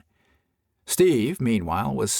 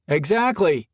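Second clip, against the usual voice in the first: higher, louder eager burst; nearly shouting; 6 semitones higher, 3 dB louder than usual. A narrator's reading. Steve answering the cart girl, nearly shouting. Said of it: "Steve nearly shouted".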